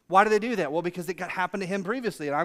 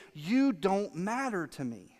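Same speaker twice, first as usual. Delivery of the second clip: slow heard meaning; slower than usual. Shown as a demonstration. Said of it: "They heard you say".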